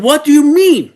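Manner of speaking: mock-offended what do you mean; retold angry retort. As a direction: snap back as if offended. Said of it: "He was angry then".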